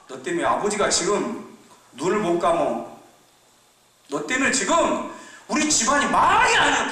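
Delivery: rising, reproachful scolding. Acted. Older brother scolds younger.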